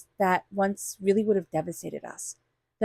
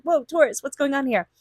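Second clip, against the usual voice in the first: mock-startled, pitched up; higher-pitched, playful alarm; taken aback; 5 semitones higher than usual. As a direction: act out someone taken aback. Voices people startled by Taurus's intensity.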